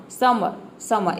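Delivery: समर said slowly, its last vowel stretched long with no r; teacher stretching समर for her students; drawn-out demo. Shown as a demonstration. Teacher shows pupils the long ending of समर. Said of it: "थोड़ा लंबा pronounce करना है".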